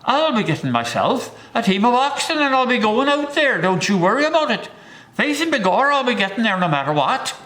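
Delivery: high, loud stage Irish brogue with a fast rush; Irish accent. Retold or imitated. Stubborn settler brushing off worries, in a hammed-up Irish accent. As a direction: boast it in a thick, comic Irish accent. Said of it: "in his Irish accent".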